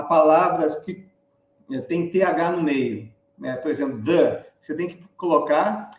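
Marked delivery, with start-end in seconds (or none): 4.0-4.5 "the" with the tongue between the teeth. Shown as a demonstration. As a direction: say "the" with a voiced dental th. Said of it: "língua entre os dentes e pronunciar". ("the" com a língua entre os dentes)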